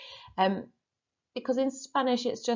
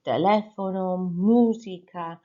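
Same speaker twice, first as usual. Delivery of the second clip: "teléfono" and "música" with stress on the accented syllable, "música" drawn out; stress on accents; slower than usual. Shown as a demonstration. Teacher showing accent stress on "música" and "teléfono". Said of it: "you're putting the emphasis".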